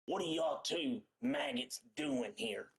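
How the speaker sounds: lightly played bullying crocodile; yelling crocodile pirate. Crocodile guard scolding two chained rowers, mild mock yelling. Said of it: "starts yelling at you".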